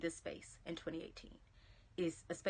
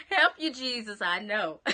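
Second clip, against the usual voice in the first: loud, laughing exclamation; real amused outburst while cracking up; 9 dB louder than usual. Real, not acted. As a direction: call it out through laughter. Cracking up with a viewer.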